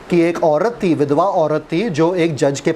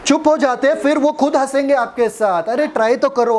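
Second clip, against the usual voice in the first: excited urging; 9 semitones higher than usual. Real, not acted. Preacher excited, higher pitch.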